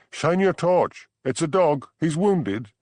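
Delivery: high, loud urgent call; calling out loudly. A narrator's reading. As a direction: shout it across the dark hillside. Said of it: "a woman saying loudly".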